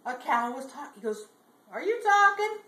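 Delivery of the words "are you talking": high, loud, disbelieving; astonished question. Acted. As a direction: ask it in amazed disbelief, pitched way up. Bubba amazed at talking cow.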